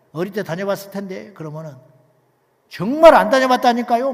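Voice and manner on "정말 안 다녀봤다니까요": loud, higher mock-indignant retort; imitating angry man. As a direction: replay a newcomer's irritated insistence. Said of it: "막 화를 낸 놈도 있어".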